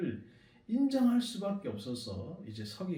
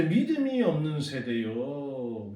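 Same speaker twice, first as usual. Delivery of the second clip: slow lament; 2 semitones lower, slower than usual. Retold or imitated. Jesus's lament, quoted slowly.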